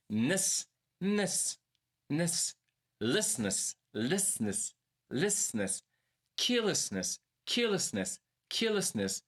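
"Ness", "Listness", "Carelessness", "Ticulousness", then "Meticulousness", each thrice; back-chained word drill. Shown as a demonstration. Teacher builds muscle memory from the word's end, drilled repetitions. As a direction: grow "Meticulousness" from its ending, chunk by chunk with even repeats. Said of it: "Zacznij od końca".

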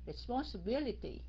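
"Responsibility" as respons, then bility; cut in two. Shown as a demonstration. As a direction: divide "Responsibility" midway for practice. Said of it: "cắt nó ra". ("Responsibility" cắt đôi để tập đọc)

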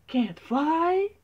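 high, loud disbelieving question; shocked gasp. Acted. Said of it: "gasped the bees".

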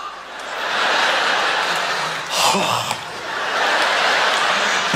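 long sigh. Retold or imitated. Desperate for bathroom.

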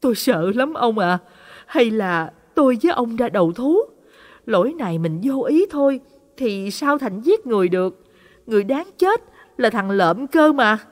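a touch of fear, mild tearful pleading; fearful pleading. Acted. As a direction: lightly plead with a trembling worry. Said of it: "Bà sợ hãi khóc lóc nói". (hơi sợ hãi, van nài nhẹ)

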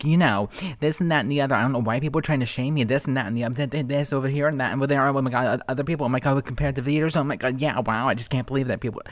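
fast, whiny mock rant. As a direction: rattle it off like a whiny complainer. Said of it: "when people talk like this".

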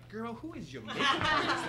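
put-on high, loud, laughing sassy girl talk; sassy girlfriend. A guest teasing Oprah about her makeup, sassy and high. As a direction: tease her like a best friend. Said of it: "I just wanted to go like".

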